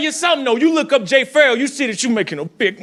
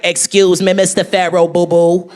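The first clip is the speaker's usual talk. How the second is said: Katt Williams impression; 3 semitones lower than usual. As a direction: rant it sing-song like Katt Williams. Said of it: "he was so mad".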